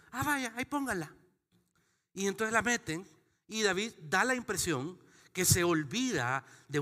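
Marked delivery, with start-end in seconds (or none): 0.1-1.1 casual Obed. Retold or imitated. Acted Obed answering door.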